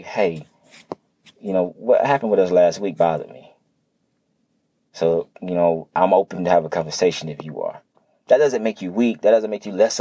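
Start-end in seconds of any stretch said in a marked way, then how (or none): 0.0-7.8 open and honest. Shown as a demonstration. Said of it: "be open enough and honest enough".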